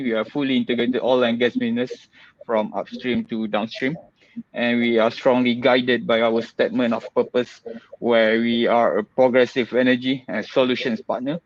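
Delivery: muffled behind a mask; talking through a mask, slightly muffled; through a face mask. Real, not acted. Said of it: "please excuse my mask".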